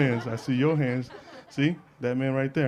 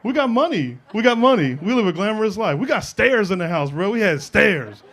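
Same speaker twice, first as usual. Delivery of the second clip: high-pitched, loud comic protest; indignant outburst; 7 semitones higher, 4 dB louder than usual. Retold or imitated. Teen bragging they have money and stairs, indignant. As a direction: protest with rising force and raised pitch. Acted outburst at the family dish.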